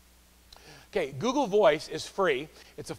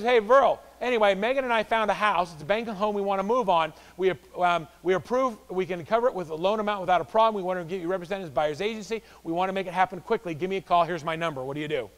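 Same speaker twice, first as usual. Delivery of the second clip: read caller message; 3 semitones higher, 5 dB louder than usual. Retold or imitated. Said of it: "It says".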